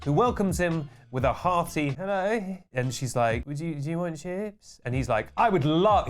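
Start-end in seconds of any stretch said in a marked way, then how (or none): 1.9-2.6 utterly unenthused greeting, slightly raised; deadpan, half-hearted hello; Destiny Harold. Retold or imitated. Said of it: "utterly neutral expression of Destiny Harold". 3.5-4.8 soft, unenthused shop worker; mumbly, indifferent offer; Destiny Harold. Retold or imitated. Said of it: "utterly neutral expression of Destiny Harold". 5.4-6.1 mock-eager customer, pitched up; hammed-up keenness; very enthusiastic. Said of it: "he's very enthusiastic".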